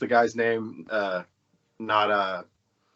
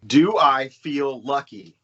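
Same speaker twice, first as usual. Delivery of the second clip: Dirty Harry; 4 dB louder, slower than usual. Retold or imitated. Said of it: "Dirty Harry".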